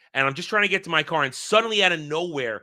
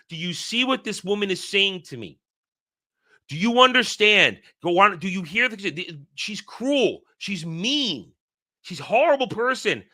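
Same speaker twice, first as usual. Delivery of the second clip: higher-pitched appeal, mildly worked up; indignant appeal; 5 semitones higher than usual. Retold or imitated. Dreamer appeals to the woman about her cruel wife, indignant. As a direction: retell an exasperated complaint, pitch raised.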